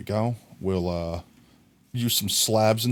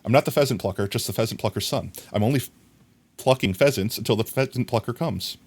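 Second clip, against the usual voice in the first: rushed speed run of the tongue twister; as fast as possible; faster than usual. Shown as a demonstration. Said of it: "I'm gonna try to say it as fast as possible".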